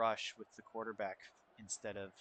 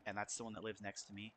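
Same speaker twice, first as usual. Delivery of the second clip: keeping it down; 2 semitones lower, 5 dB quieter than usual. Real, not acted. Student gamer with roommates through thin walls, keeping it down. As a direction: talk softly so the next room won't hear. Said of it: "I just wanna be courteous".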